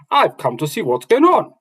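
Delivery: dwarf voice. Acted. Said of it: "the dwarf spoke back to him".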